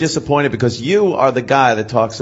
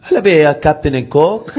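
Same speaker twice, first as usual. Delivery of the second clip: put-on French accent. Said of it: "start with the fucking accent".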